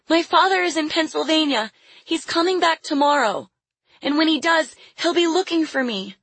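put-on high child's voice, held up throughout; defiant little girl. A narrator's reading. Lily tells captor about her father, defiant. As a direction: insist in a little girl's high voice.

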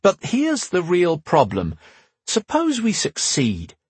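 slow grave warning; slow it down, weighty. A narrator's reading. The speaker speaking gravely.

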